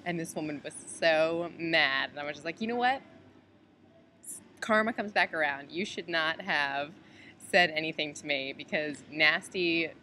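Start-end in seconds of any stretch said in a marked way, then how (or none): 2.6-9.9 loud, emphatic told-you-so; mock lecture, punched hard; retold righteous scolding. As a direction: deliver payback with heavy, loud emphasis. Retold telling-off of the rude woman.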